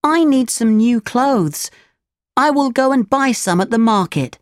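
put-on high, boyish voice of the puppet; Pinocchio's voice. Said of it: "Pinocchio said to his father".

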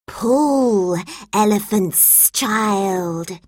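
slow, hissing snake voice; lightly voiced snake; Python's voice. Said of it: "he said".

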